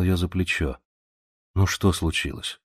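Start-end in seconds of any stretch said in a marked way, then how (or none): 1.5-2.6 tenderly. Acted. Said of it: "ласково сказал он".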